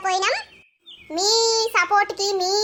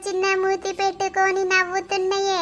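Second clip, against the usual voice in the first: tender sing-song cooing; doting baby talk; slower than usual. Acted. Mother asks the smiling baby if it knows her, cooing tenderly. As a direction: dote on a smiling baby, drawing out the endearment.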